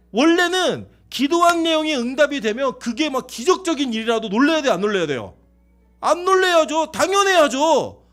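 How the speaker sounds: loud, high-pitched exhortation to the congregation; forceful preaching. Real, not acted.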